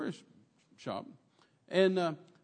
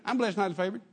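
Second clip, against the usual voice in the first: rote reply; 5 semitones higher, faster than usual. Retold or imitated. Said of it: "you walk into church and say".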